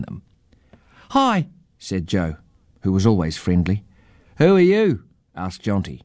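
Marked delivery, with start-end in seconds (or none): 1.1-1.5 put-on high, friendly child's greeting; friendly girl. A narrator's reading. Friendly Joe greets the stranger, high child's voice. 4.4-5.0 put-on high, inquisitive child's voice; inquisitive boy. A narrator's reading. Inquisitive boy questions the strange old man, high child's voice.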